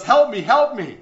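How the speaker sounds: loud, high mock cry for help; retold yell for help. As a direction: call out desperately, acting the trapped man. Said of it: "And he yells".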